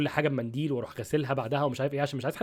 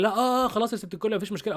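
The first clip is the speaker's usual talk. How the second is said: imitated backing down; 5 semitones higher than usual. Cashier backing down before the angry couple, imitated appeasing. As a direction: hurriedly placate in a higher voice.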